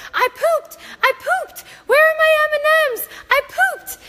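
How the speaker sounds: put-on high, excited little-kid squeal; toddler voice. Toddler shouting to her mom during the birth, high and gleeful. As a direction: shout it like a proud potty-trained toddler. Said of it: "Lila's running around the entire house saying".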